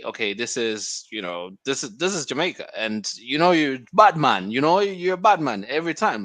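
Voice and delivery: put-on quoting in a light Jamaican accent. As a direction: slip into a Jamaican accent for the quote. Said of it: "Was that your, your Jamaican accent?".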